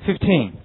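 "fifteen" with both syllables stressed. Shown as a demonstration. Teacher modelling for students to repeat, "fifteen" stressed on both syllables. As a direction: give "fifteen" weight on FIF and on TEEN. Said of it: "两个音节上面都有重音啊".

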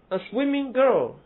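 put-on slow, stressing swimming and girl alike; both words stressed. Shown as a demonstration. Teacher showing students the participle phrase, both words stressed. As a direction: give swimming and girl equal weight, girl falling. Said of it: "girl跟swimming之间有逻辑上的组合关系".

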